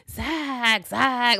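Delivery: a light Marge Simpson-style mock of Kata; hammed-up whine of his name; imitating Kata. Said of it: "he was doing her voice".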